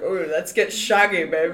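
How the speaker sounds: mock British swinger voice; hammed-up British flirt; Austin Powers. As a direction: put on a playful British lothario. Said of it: "it reminds me of Austin Powers".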